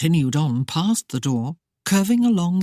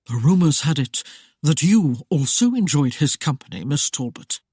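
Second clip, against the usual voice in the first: dry. Acted. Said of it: "Lord Saxton stated dryly".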